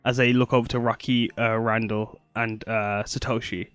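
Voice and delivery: nervous, stammering character voice; stage fright. Acted. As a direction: stumble over the words nervously. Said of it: "sorry, I'm nervous".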